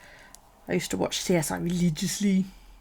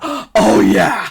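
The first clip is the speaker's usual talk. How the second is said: mock swooning; 14 dB louder than usual.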